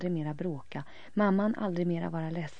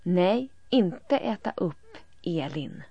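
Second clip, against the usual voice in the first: put-on childlike plea; 3 semitones higher, 6 dB louder, slower than usual. A narrator's reading. Halvbror voiced in story.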